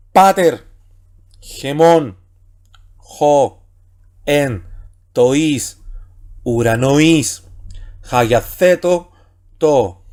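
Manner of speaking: steady Greek reading, word by word; reading Greek aloud. Shown as a demonstration. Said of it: "voy a leer más fluidamente".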